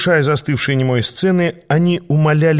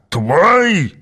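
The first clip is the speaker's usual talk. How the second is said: loud raised roar of one word; 6 semitones higher, 3 dB louder than usual. A narrator's reading. Aas roars at the boy about the dragon, outraged. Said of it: "взревел Аас".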